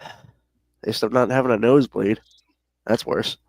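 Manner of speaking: speaking with a tissue in nose; nose plugged, talking round it; tissue up one nostril. Real, not acted. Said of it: "I have a tissue in my nose".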